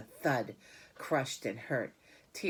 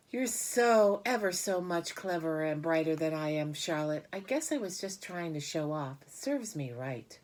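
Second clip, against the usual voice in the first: lightly voiced pig, starting high and loud then settling; humble pig voice; 4 semitones higher, 4 dB louder than usual. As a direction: admit it sheepishly. Wilbur admits defeat.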